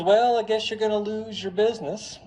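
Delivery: high-pitched voice of a wife; put-on wife, pitched well up; acted wife. Wife answering husband about the business, high put-on voice.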